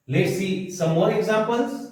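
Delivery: slow announcement. Shown as a demonstration. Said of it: "teacher slowly announcing examples".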